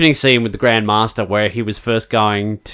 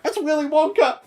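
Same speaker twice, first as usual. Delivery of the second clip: high, laughing Willy Wonka; imitating a giddy friend, much higher; excited nudge; 4 dB quieter than usual. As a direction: squeal it through a laugh. Excited friend elbowing at movies.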